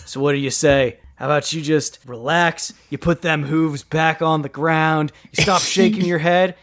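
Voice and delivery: lightly voiced surfer dude offering pizza; surfer-dude turtle. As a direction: coax the horse like a chill dude. Michelangelo offers pizza to horse.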